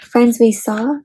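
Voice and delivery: gentle storybook read-aloud; reading to children. Acted. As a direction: read it like a picture book to kids. Reads picture book aloud.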